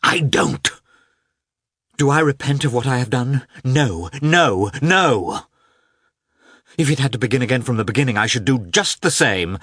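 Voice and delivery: high, loud, impassioned woman's voice; a wife defending her choice, loud and high; passionate Anna. A narrator's reading. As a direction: pour it out in defiant passion. Anna's passionate outburst.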